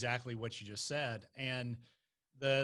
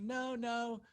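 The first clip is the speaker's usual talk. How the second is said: quick denial; 10 semitones higher than usual. Retold or imitated. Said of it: "I was like".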